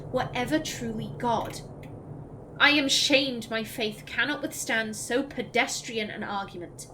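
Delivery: grave, measured recital; dramatic codex reading. Acted. Streamer voices a doubting believer's letter, solemn. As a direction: read it like a troubled believer's letter. Reads codex entry aloud.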